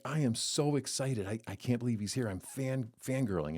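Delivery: bubbly retold gush about a local star; excited fangirling. Wife retelling her fan excitement, lightly excited. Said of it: "She's like".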